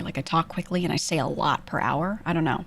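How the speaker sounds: talking while chewing; words round a bite of food; mouth full. Real, not acted. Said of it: "'cause I'm taking bites of food".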